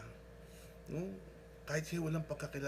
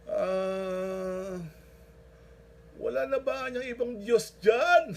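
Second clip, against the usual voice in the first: slow, loud, high incredulous plea; punchline delivered slow and loud; comic desperate question; 6 semitones higher, 9 dB louder, much slower than usual. Retold or imitated. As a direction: drag out the question in comic panic. Punchline of the joke.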